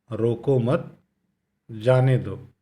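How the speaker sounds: "रोको मत" as one unit, a break, then "जाने दो"; pause after मत. Shown as a demonstration. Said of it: "ही कुछ इस ढंग से था".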